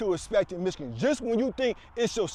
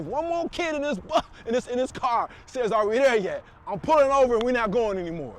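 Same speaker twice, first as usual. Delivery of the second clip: put-on exasperated dad threatening the kids, getting louder; retold angry dad; 3 semitones higher, 4 dB louder than usual. Dad losing patience with kids asking in the car, mock angry shout. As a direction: snap at the kids, rising to a loud warning. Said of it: "I said".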